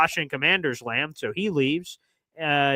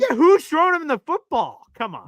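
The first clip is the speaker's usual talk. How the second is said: scoffing; 10 semitones higher, 4 dB louder than usual. Real, not acted. Scoffing at the Browns quarterbacks.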